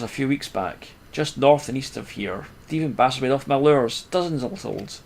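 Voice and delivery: a lightly put-on Cockney fisherman; put-on Cockney accent. Gamer reading the fisherman's lament in a put-on Cockney accent. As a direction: read the old fisherman's lines with a rough Cockney lilt. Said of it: "that was a terrible dialect".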